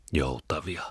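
breathy whispered dismissal; whispered scoff. Acted. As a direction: brush it off under the breath. Muttered dismissal in dialogue. (kuiskattu tuhahdus)

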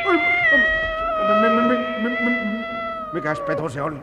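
very high, stuttering panic; squeaky, startled alarm; terrified stammer. Acted. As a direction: stutter in fright before getting the question out. Startled by a beast in dark.

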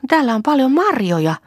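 put-on high, loud happy child's call; rejoicing. A narrator's reading. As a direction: shout out with delight. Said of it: "riemuitsi Lea".

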